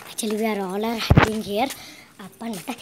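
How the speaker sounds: low, slow hushed voice; whispering while hiding. Real, not acted. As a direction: whisper so the seeker can't hear. Hiding from seeker.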